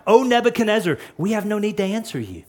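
fast, firm refusal to the king; quick defiant reply. Shown as a demonstration. The three men answering the enraged king, fast and firm. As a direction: rattle it off, unbothered. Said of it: "notice what he says".

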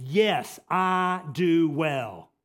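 loud, defiant insistence; forceful acted retort to God; emphatic, angry Jonah. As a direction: hit each phrase hard, angrily. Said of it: "this is very emphatic the way it's written".

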